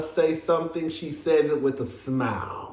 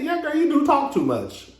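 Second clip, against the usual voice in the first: higher, laughing through it; light laughing delivery; 10 semitones higher than usual. Shown as a demonstration. Teasing Dorit lightly while laughing. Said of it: "it come across a little bit different".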